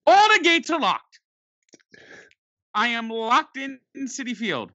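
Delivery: sudden panic at the locked gates; alarmed realization. Retold or imitated. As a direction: blurt it out in shock. Locked inside the stadium.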